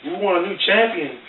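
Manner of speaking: high, slow Hulk Hogan-style promo; mock wrestler promo; wrestling promo. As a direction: ham it up like a wrestler cutting a promo.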